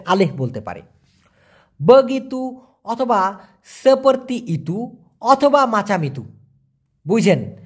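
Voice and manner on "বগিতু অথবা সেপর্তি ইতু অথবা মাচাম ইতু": 1 slow careful listing. Shown as a demonstration. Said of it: "Malay vocabulary lesson".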